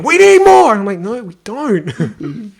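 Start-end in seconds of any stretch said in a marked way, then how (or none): 0.0-0.7 very high, very loud demand; hammed-up screaming. Co-writer demanding more screaming in the script, screamed. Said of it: "then you're screaming". 1.0-2.5 drawn-out, higher mock refusal; exasperated protest. Writer refusing co-writer's demand for more screaming, exasperated. Acted quarrel over the script.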